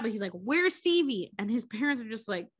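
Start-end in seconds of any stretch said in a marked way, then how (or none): 0.3-1.3 higher, drawn-out eager question; excited questioning. Retold or imitated. Retelling a boy asking his parents, excited. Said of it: "he's, like, excited about that".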